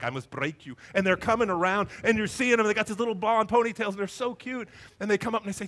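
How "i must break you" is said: lower, menacing Russian movie boxer; playful low-voiced threat from a Russian fighter; Ivan Drago. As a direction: do a quick Drago impression, pitched down. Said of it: "just like Ivan Drago and Rocky".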